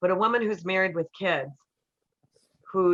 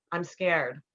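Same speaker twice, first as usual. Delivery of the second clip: vulnerable. Retold or imitated. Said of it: "told him how it was landing with me".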